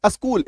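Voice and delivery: अस्कूल, opening on an added "a"; students' mispronunciation. Retold or imitated. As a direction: show the learner's slip in अस्कूल, a-skool. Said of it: "वो क्या बोलते हैं". ("अ" लगाकर गलत उच्चारण)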